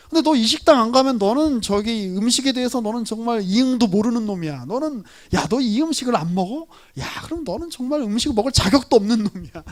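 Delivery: lightly hammed-up nagging about a restaurant; mock nagging friend over a restaurant; mock scolding. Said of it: "이렇게 이야기하는 건 말이 안 되잖아요".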